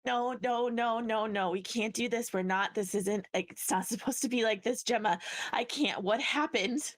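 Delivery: wounded fighter refusing what happened; distressed denial. Acted. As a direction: beg it not to be true.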